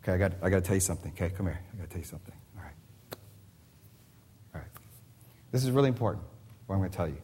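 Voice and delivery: hushed, conspiratorial aside to the congregation; confiding whisper. Acted. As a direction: lean in and tell them a secret. Preacher leans in to confide.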